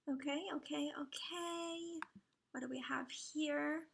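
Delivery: soft unvoiced whisper; whispered okays. Real, not acted. Whispering to herself as dragons load. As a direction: murmur it under your breath.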